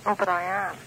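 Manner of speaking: loud insistent shout into the phone; loud protest that she really is shouting. Real, not acted. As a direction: shout it so the DJ hears you. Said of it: "I'm shouting".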